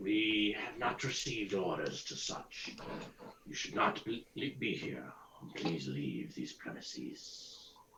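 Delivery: growling corpse voice. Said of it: "one of them growls".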